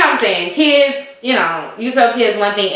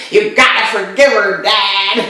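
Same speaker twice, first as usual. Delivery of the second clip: put-on quoting the boy. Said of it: "Did y'all hear that?".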